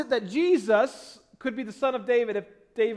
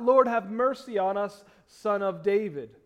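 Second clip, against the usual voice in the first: mild crying out; 5 dB louder than usual. Acted. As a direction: call out for mercy with measured force. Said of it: "cried out".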